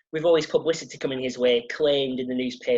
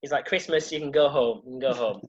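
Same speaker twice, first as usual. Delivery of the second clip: monotone. Retold or imitated.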